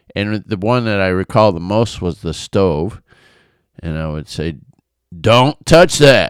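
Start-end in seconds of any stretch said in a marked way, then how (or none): 5.2-6.3 strong, booming, forceful, stern voice. A father recalls warning his young son away from the stove: retelling a forceful command. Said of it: "I would say that really strong and enforceful".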